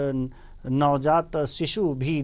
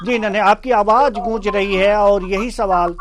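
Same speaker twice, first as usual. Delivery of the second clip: calling out; 4 semitones higher, 11 dB louder than usual. Real, not acted. Anchor calls out over echoing line.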